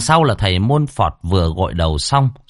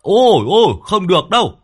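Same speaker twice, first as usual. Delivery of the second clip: nói to cao giọng át tiếng gió; hét lại ngạc nhiên, cuống quýt; 11 semitones higher than usual. Acted. Lâm Sẹo hét qua tiếng gió. (Lâm Sẹo quay lại hét đáp thầy)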